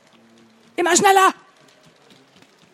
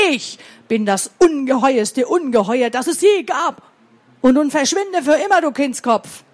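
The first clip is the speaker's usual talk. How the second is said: deep distorted monster roar. Acted. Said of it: "brüllte noch fürchterlicher".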